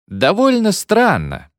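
slow, puzzled drawl; slow drawn-out. Acted. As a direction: stretch it out, puzzled. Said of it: "отозвался новоиспечённый секретарь". (медленно, с недоумением)

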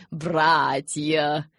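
loud, ceremonial call; solemn address. A narrator's reading. Elder turning to fellow elders, solemn loud address. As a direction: proclaim it solemnly. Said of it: "торжественно произнёс он".

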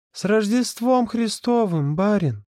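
high, slow mock-servant greeting; jolly servant greeting. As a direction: hail the master merrily. Ghost's festive greeting.

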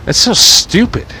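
high, exasperated outburst; exasperated squeal. Real, not acted. Fed up with doing the voice, squealing. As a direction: throw up your hands, high.

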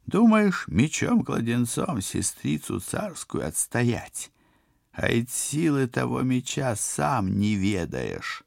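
high, slow taunting villain. Acted. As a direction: taunt like an evil sorcerer. Koshchei taunts.

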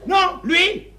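éclats brefs et aigus; s'emporter en s'embrouillant; exaspéré. Acted. S'emporte contre l'amant, s'embrouille. (à bout de nerfs, exaspéré)

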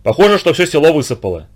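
usual speaking voice

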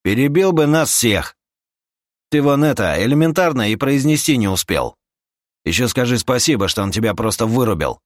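high, loud sarcastic retort; scornful companion. Acted. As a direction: cut down his argument hotly. (язвительная отповедь на повышенном тоне)

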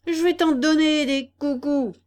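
loud angry retort; shouting. Acted. Biggest bully shouts at the puppet, loud angry. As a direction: yell it back in his face. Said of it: "cria le plus grand des vauriens".

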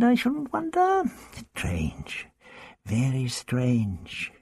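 the Doctor musing over the strange pool; musing old Doctor. Acted. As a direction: think it through aloud. Doctor ponders.

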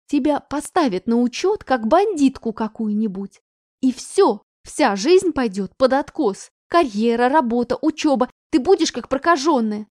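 loud anxious scolding mother. Acted. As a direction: lay it on her, rising.

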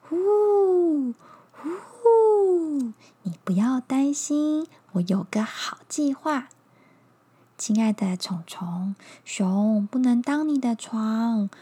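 hooting, calm owl voice; calm wise owl. Acted.

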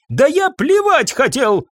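a professor blowing up at the hotel owner, yelling; yelling in a rage. A narrator's reading. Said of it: "раскричался профессор".

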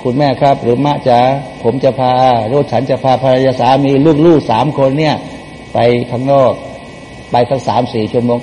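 mildly softened, respectful request; not raising the voice. Shown as a demonstration. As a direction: ask mother's permission gently. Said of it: "เวลาคุยกับมะเนี่ย อย่าขึ้นเสียง".

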